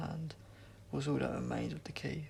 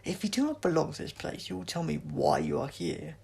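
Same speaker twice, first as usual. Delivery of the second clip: loud, higher harsh alien voice; harsh alien demand; 4 semitones higher, 7 dB louder than usual. A narrator's reading. Sontaran voice.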